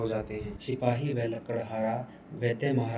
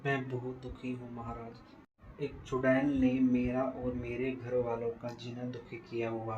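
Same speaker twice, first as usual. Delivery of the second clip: soft, troubled plea; quiet and downcast, pleading; sad woodcutter; 5 dB quieter than usual. Acted. Woodcutter complains to the king.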